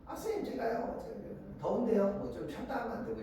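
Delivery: a small high voice imitating a student's excuse; interrupting pupil. Pupil derailing the start of class, mock whiny interruption. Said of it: "애들이 막 딴소리 막 하는 애들이".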